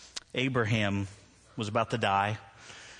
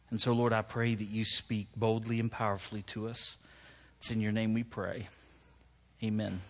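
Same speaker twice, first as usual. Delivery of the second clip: prayer. Real, not acted. Preacher praying before the sermon, hushed prayer.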